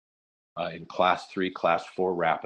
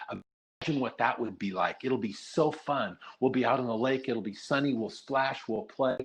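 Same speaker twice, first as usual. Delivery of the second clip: put-on promising a child a fun day on the lake, raised upbeat voice; enticing, bright pitch up; 5 semitones higher than usual. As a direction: coax him with a sunny picture of canoeing, voice lifted high. Enticing the boy with canoeing.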